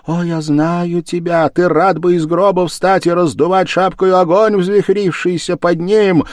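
high, impassioned lament and accusation; despairing wife. Acted. Wife begs her husband to think of their son, high despairing lament. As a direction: plead then curse him, voice kept high. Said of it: "закричала в отчаянии".

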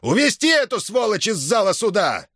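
high, barked order to the guards; raging command. A narrator's reading. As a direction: pass sentence in a fury. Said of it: "скомандовал он конвойным". (гневный приказ конвою, высоко и громко)

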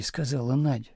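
plain reading voice

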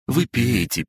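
high, caring offering voice; caring dragon. A narrator's reading. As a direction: urge him gently to drink. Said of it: "заботливо подлил ему". (заботливо, с высоким голосом)

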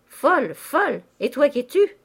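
high, loud offended retort; indignant outburst. Acted. Countess turning on her sister who called her mad, indignant. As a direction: throw the insult back, pitch leaping up. Insulted sister snaps back in quarrel.

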